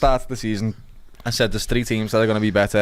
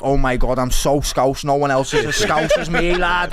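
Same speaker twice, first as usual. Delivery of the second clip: emphatic Scouse fan; slower than usual. Retold or imitated. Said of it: "one is the most emphatic".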